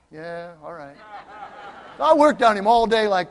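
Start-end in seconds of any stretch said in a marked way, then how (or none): 0.1-1.0 low-key, very soft brush-off; unenthused reply. Retold or imitated. Worker answering pastor's talk of God, unenthused reply. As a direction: mumble it back, imitating a reluctant man.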